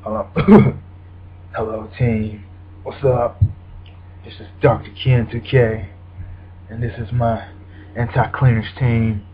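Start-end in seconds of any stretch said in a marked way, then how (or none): 1.6-9.2 creepy scary voice. Pretend. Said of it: "gotta use my creepy, scary voice".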